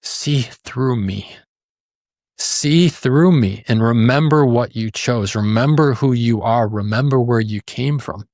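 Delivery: slow, pleading, heartfelt; slow earnest plea. Retold or imitated. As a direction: plead gently, drawing each word out. Soft plea voiced in retold story.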